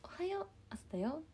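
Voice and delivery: high, soft sing-song wake-up call; hushed high mascot greeting; soft mascot alarm voice. Retold or imitated. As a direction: coo it like a gentle cartoon alarm. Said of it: "コラショが起こしてくれてました".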